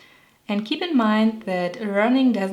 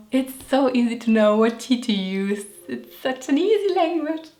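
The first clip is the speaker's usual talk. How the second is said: sarcastic praise; 2 semitones higher than usual. Acted. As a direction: sing its praises with rising, strained irony. Mock praise of confusing T rules.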